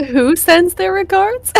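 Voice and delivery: high, slow stunned question; can't believe what he heard; shocked disbelief. Real, not acted. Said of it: "player reacts in shock".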